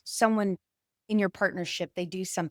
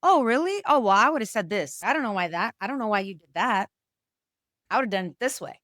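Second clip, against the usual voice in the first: know-it-all dismissive. Retold or imitated. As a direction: brush off the partner, you know better. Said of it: "an air in distortion sounds like".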